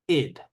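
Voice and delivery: standalone syllable "id"; isolated ID ending. Shown as a demonstration. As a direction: demonstrate "id" as its own syllable. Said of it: "there are three sounds".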